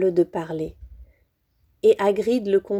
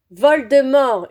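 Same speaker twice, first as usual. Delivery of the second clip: loud defiant yell of the name; boy daring to say the forbidden name; shouted name; 3 semitones higher, 6 dB louder, slower than usual. A narrator's reading. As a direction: throw the name out boldly. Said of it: "hurla Harry".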